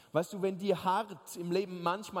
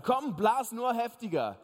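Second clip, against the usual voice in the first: defiant call; 3 dB louder than usual. Pretend. Defiant voice to the wind.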